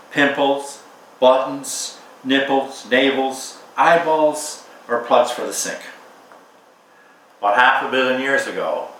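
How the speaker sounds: measured, unhurried poetry reading; poem reading. Acted. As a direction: read it as a poem, letting each image land.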